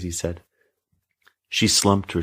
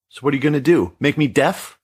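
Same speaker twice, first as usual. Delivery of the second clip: higher, louder shout hitting "deaf"; a girl shouting defiantly at her mother; 7 semitones higher, 3 dB louder than usual. A narrator's reading. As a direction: throw the last word "deaf" at her. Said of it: "Kizzy shouted, making sure to emphasize the last word".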